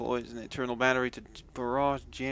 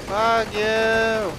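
loud angry curse at enemy; angry shout; 7 semitones higher, 8 dB louder than usual. Real, not acted. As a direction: spit it out, furious.

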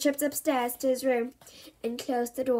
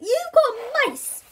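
higher, louder and slow, appalled; horrified; 11 semitones higher, 6 dB louder, much slower than usual. A narrator's reading. Visitor accusing mum of mice, horrified. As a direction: drag it out in disgust and alarm. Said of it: "she shrieked".

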